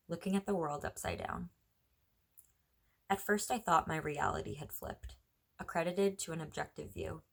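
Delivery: measured, understated poetry recital; poem reading. Acted. Reads own poem aloud.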